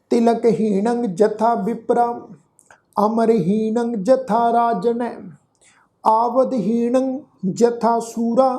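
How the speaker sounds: slow, measured reading of sacred verse; scripture recitation. Acted. The teacher recites the verse for the sangat, slow and devout. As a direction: intone each word slowly and with devotion.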